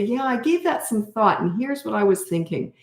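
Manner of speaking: put-on thinking it over calmly with the child; calm, relaxed tone. Shown as a demonstration. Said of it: "When you talk like that".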